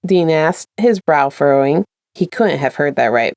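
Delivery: steady storyteller reading aloud; story narration. A narrator's reading. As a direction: read it like an audiobook chapter. Reads a fanfic aloud.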